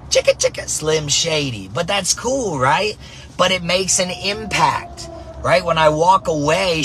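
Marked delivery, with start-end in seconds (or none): 0.1-1.7 playfully ape a rapper's hook; mock a rapper. The softball rapper riffing for the camera, mock rap. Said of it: "The softball rapper".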